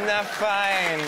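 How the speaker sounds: high, loud cheeky kangaroo voice; Känguru-Stimme. Acted. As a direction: play the brazen kangaroo, up high. Kangaroo snaps. (hohe, laute Känguru-Stimme)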